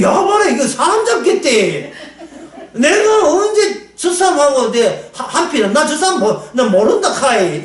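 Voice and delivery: high, laughing Gyeongsang dialect protest; 경상도 사투리로 억울하게 항변. Retold or imitated. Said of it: "경상도 말로 하면".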